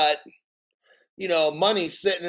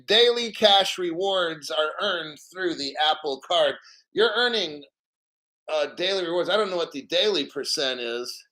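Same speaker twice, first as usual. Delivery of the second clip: out of breath. Real, not acted. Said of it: "So if I'm a little out of breath".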